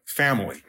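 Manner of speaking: family said as the key word; emphasis on family. Shown as a demonstration. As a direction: FAMILY set apart and firmly stressed. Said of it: "I'm emphasizing".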